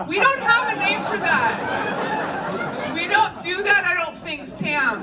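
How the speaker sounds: high, slow, disbelieving; reacting in shocked disbelief to a gross custom; incredulous. Real, not acted. Stunned reaction to dogging.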